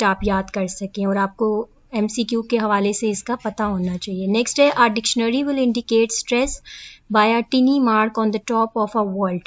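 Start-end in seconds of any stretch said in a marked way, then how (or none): 4.7-9.4 reading the definition word by word, slowly; slow dictation. Acted. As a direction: dictate it slowly so students can copy. Reads statement slowly. (धीमे-धीमे लिखवाते हुए पढ़ना)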